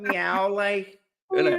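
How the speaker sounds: a lightly voiced Scouse cat meow; mock the cat's Scouse meow again, lighter. Joking with his co-host, a light Scouse meow. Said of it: "She sounds proper Scouse when she meows".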